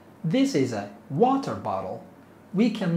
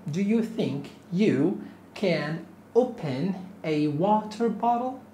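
mock surprise; 4 semitones higher than usual. Teacher's mock incredulous question.

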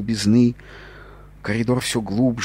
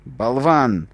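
loud, higher yell of an insult; 4 semitones higher, 4 dB louder than usual. A narrator's reading. Narrator yelling at the captain, loud insult. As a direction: hurl the insult at him. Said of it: "я орал уже стоя".

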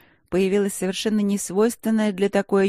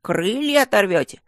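higher, louder hammed-up gasp of fright; mock horror; 4 semitones higher, 4 dB louder than usual. Gargoyle gasps at the rector in hammed-up mock fright. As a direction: fake terror for effect. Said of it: "В притворном ужасе охнула".

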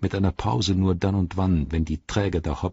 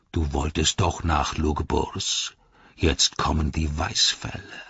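lightly voiced jeering orc; a touch of a sneering orc commander; Ugluk, taunting; 3 semitones lower than usual. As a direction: needle the rival with scorn.

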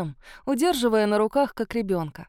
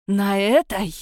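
loud furious scorn; 6 dB louder, slower than usual. Acted. Mother furiously points at the bride, loud. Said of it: "яростно ткнула".

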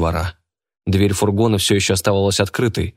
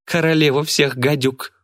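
laughing; 7 semitones higher than usual. A narrator's reading. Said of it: "хохотнула девчонка".

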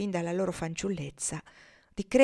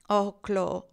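gentle reproach. Acted. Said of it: "in atto di dolce rimprovero".

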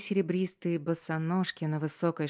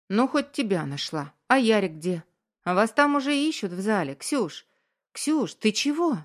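higher, quick, worried questions; rising alarm at her state; worried surprise; 4 semitones higher, 4 dB louder than usual. Acted. Friend finds bride, worried.

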